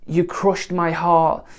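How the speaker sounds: slow, overwrought delivery of the line; milk each word of "You crushed my heart" as melodrama; over dramatic. Shown as a demonstration. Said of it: "you wouldn't go over dramatic".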